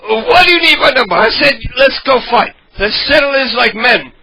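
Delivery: loud, high, shouting to start a fight; mock fight challenge. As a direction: bellow at him like you're ready to brawl. Prank caller picking a fight.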